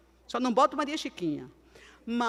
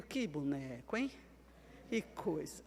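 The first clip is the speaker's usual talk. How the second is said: much lower and quieter grumble; muttered aside; 7 semitones lower, 12 dB quieter than usual. Retold or imitated. Wife grumbling about her quiet husband, muttered. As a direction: grumble it under your breath.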